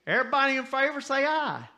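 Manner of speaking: high, loud call for a vote; church member. Acted. Church member to the congregation, calling a vote loudly. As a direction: call it out like running a meeting. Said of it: "a man walks up and says".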